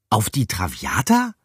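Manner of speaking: a mild rising echo of "Traviata"; surprised echo. A narrator's reading. Mouse repeating the ship's name, mildly surprised. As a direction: repeat it, just a little astonished. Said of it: "wiederholte Pikandou".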